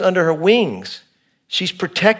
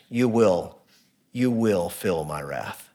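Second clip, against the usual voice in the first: God's warning; 8 semitones lower, 8 dB quieter, slower than usual. Acted. God voiced warning of wrath.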